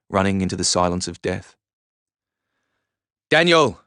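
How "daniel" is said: high, loud desperate scream of a name; acted scream, pitched high. A narrator's reading. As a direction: scream after someone running off. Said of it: "I screamed".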